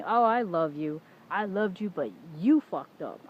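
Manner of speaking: loud, drawn-out, sarcastic imitation; mock affection. Mimicking his ex's fake love and blame, sarcastically hammed up. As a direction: overplay her fake sweetness, then the blame.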